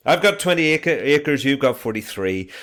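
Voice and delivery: loud, high stab at a West Country yokel; attempted West Country accent. Shown as a demonstration. Teacher trying a West Country accent on the song. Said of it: "I am awful at accents".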